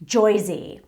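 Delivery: JOYZY with an oy in place of the er; Jersey rendered as JOYZY, drawn out; mock Jersey pronunciation. Shown as a demonstration. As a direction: say JOYZY with a stretched oy, like a caricatured Jersey accent. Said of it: "nobody says Joyzy".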